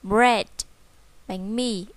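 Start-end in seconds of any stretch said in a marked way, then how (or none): 0.0-0.5 "Bread" with the last d clearly released; final sound pronounced. Shown as a demonstration. Teacher reminds children of the ending, "Bread" with audible final d. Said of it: "Chúng ta đọc âm cuối này".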